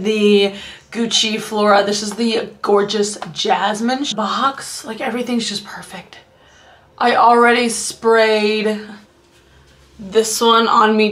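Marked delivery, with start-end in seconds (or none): 4.8-6.2 whispered delight over a gift box; soft whispered gush; hushed gushing. Real, not acted. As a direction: breathe it out softly, awed.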